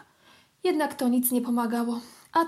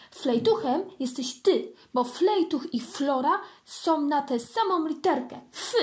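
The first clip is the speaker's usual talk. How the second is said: cheeky; 3 semitones higher than usual. Acted. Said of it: "dodał zadziornie".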